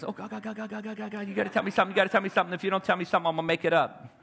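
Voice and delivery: quick hushed panicked God God God; preacher imitating his inner panic for the congregation; frantic inner prayer. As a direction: rattle it off, desperate and half laughing. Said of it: "It goes something like this".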